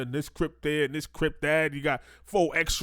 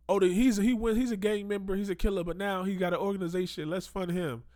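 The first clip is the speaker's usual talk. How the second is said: higher-pitched imitation of gullible backers; mock naive approval; 5 semitones higher than usual. Commentator mimics celebrities funding a gang member, mock naive approval. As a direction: lightly mimic someone making easy excuses.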